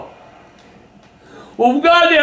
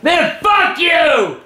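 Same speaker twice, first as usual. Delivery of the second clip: furious yell; much slower than usual. Real, not acted. Cursing the other players.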